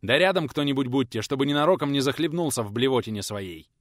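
loud, firm command to the servants; stern order. Acted. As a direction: insist so nobody dares forget. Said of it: "наказал мужчина".

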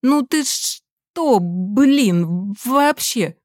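высоко, медленно, возмущённо; обиженно возмущается; возмущение. Acted. Сын возмущён закрытым ноутбуком. (подросток возмущается на мать, высоко и медленно)

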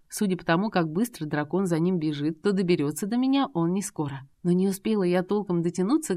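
ordinary delivery, nothing marked

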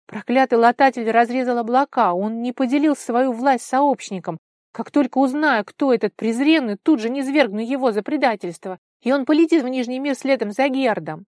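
loud, high ringing threat; queen vowing to cast down a traitor, loud and steely; steely fury. A narrator's reading. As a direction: swear vengeance in a voice of steel. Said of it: "Голос Вары зазвенел сталью".

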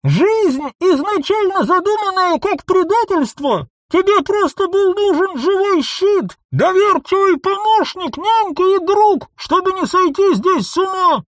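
high, loud, furious yelling; furious shout. A narrator's reading. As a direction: scream the betrayal at her. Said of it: "Яростно закричал человек в скафандре". (яростный крик)

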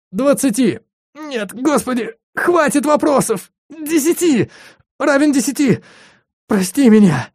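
very high frantic answers; panicked babbling. Acted. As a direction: stumble over words in terror. Ron panics answering under torture.

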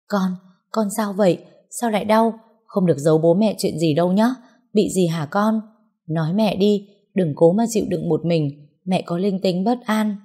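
mildly worried mother pressing for answers; a touch of alarm in hurried questions; urgent anxious questioning. Acted. Mother hears daughter cry in pain, urgent questioning. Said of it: "vội hỏi dồn dập".

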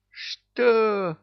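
high, loud startled yell. A narrator's reading. Tsar yelling at Ivan's plan, loud high shock. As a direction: cry out in sudden alarm. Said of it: "завопил Владимир".

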